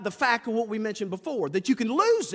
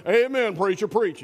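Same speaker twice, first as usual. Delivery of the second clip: lightly voiced churchgoer calling amen; mock amen; 3 dB louder than usual. Preacher mimics a churchgoer shouting amen at the sermon, light mock call. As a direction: tease the self-righteous amen-sayer. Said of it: "sit in church and go".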